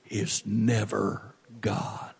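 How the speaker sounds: hushed sermon whisper; dramatic whisper. Real, not acted. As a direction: draw them in with a whisper. Preacher drops to intense whisper.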